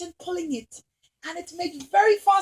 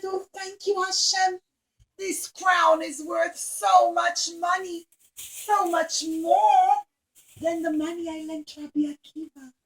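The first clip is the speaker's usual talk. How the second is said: grateful thanks; 3 semitones higher than usual. Acted. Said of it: "she was so happy".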